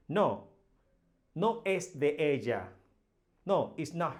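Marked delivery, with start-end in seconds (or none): 0.1-2.7 stamp down on the first "No" of "No, no es de ella"; emphatic no. Shown as a demonstration. Teacher shows students an emphatic denial, hitting "No".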